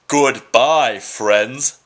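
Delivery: loud, hammed-up farewell; be as obnoxious as you can; obnoxious goodbye. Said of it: "I have to be more obnoxious".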